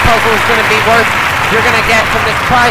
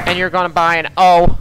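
a hint of a gruff country guy; country buster voice; 4 semitones lower than usual. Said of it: "country buster voice".

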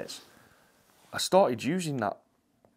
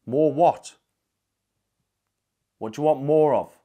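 startled; 4 semitones higher, 10 dB louder than usual. Real, not acted. Reacting to a ghost's word.

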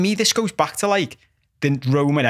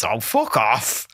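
slow, lower, easy-going fuck off; casual friendly brush-off; 5 semitones lower, much slower than usual. Retold or imitated. Traveller telling an American girl off, slow and friendly. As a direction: toss it off as a joke. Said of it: "I said".

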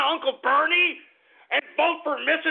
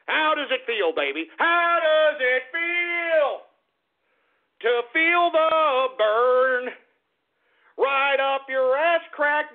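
drawn-out mocking taunt, slow and louder; gloating taunt; 3 dB louder, slower than usual. Host rubbing it in to Bernie supporters, slow gloating taunt. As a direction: stretch every word out to rub it in.

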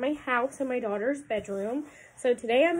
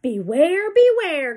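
loud, higher warning call; 4 semitones higher, 7 dB louder, slower than usual. Acted. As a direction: call out to the bear. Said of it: "called the bees to the bear".

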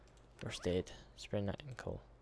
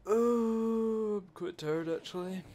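sleepy character voice; 10 semitones higher, slower than usual. Pretend.

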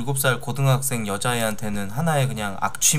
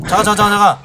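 loud; 8 semitones higher, 10 dB louder, faster than usual. Real, not acted. Urgently stopping the stream.

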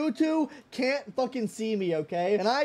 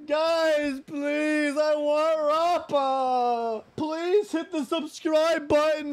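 slow, drawn-out whine; mock tearful begging; 3 semitones higher, much slower than usual. Streamer begging viewers to subscribe, mock tearful. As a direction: plead tearfully, dragging the words.

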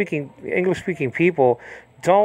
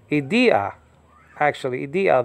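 Idia with the middle syllable stressed; second-syllable stress. Shown as a demonstration. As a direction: put the weight on the DI of Idia. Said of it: "markers on the second syllable".

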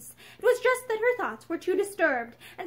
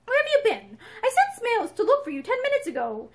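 irritable; 8 semitones higher, 4 dB louder than usual. A narrator's reading. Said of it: "his voice was irritable".

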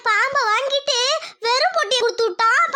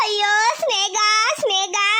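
drawn-out, crying lament, slow; keen over the dead snake slowly; slow mourning wail; much slower than usual. Acted. Snake charmer mourning her snake Sneha, slow crying wail.

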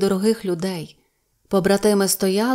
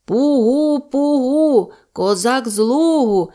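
high, loud "Пугу" then a slower "Козак з Лугу"; shouting; 5 semitones higher, 5 dB louder, slower than usual. Acted. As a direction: shout the Cossack password proudly across the ravine. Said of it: "крикнув Голота". (гучний козацький клич)

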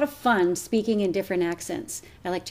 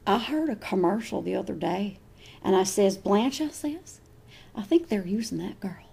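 trailer park gossip; faster than usual. Acted.

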